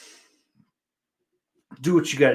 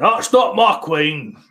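put-on botched Irish accent, pushed louder; half-baked Irish accent, a little raised; attempted Irish accent; 5 semitones higher, 5 dB louder than usual. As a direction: have a bad go at an Irish accent. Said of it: "That's not your accent".

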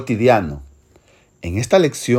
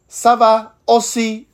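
slow, higher careful "Ça va aussi"; formal reply; 8 semitones higher, slower than usual. Acted. Gentleman answering his friend, slow polite French. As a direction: close politely and unhurried. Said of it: "entre dos señores".

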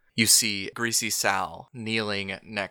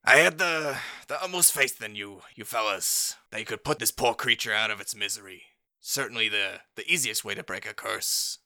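Greasy Sal voice. Acted. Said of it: "very handsome gnome with a fine".

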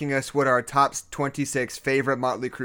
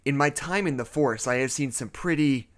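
story narration. Acted. Reads creepypasta as narrator.

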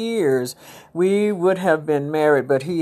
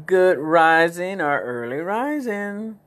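"good rising" said slowly, each word given weight; "early rising" drawn out as a new greeting; 3 semitones higher, slower than usual. Shown as a demonstration. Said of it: "I say".

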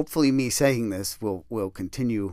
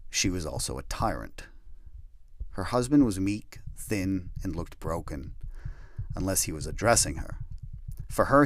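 measured, lower read-through of a written memoir passage; reading a draft aloud; 3 semitones lower than usual. Shown as a demonstration. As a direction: read your own prose to the listeners, evenly. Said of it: "am I gonna get up and talk like that".

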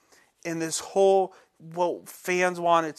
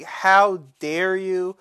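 retold anger; 2 semitones higher, 5 dB louder than usual. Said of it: "I got mad".

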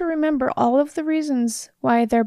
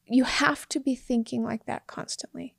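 whisper; 5 dB quieter than usual. Real, not acted. Whisper heard unvoiced.

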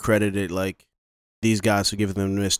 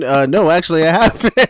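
high, loud dumb victim voice; mock clueless victim; 7 semitones higher, 8 dB louder than usual. Victim answering the reporter, high and clueless. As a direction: answer like it never occurred to you.

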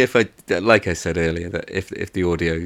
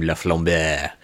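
name in a deliberately poor French accent; bad French accent; slower than usual. Shown as a demonstration. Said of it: "doing the worst French accent possible".

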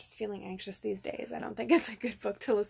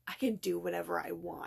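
mock-firm, lower, a bit stubborn; firmly stubborn; 4 semitones lower than usual. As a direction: imitate him saying it firmly. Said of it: "like, so firmly".

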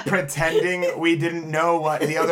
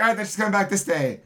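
excited; 5 semitones higher, faster than usual. Retold or imitated. Excited plan quoted.

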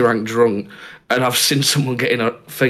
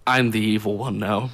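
evil villain; 6 semitones lower, 5 dB quieter than usual. Retold or imitated.

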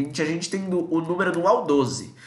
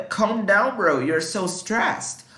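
slow example read; 5 semitones higher, much slower than usual. Shown as a demonstration. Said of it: "Calm da".

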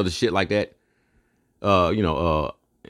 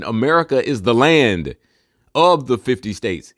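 ordinary talk

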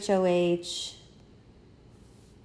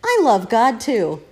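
robot voice; 3 semitones higher, 7 dB louder, slower than usual. Retold or imitated. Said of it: "Like a robot who's been programmed".

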